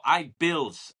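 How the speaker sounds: put-on "I Bills" in a light Russian accent, falling at the end. Russian fan explaining his team, "I Bills" in Russian accent. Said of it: "in his Russian accent".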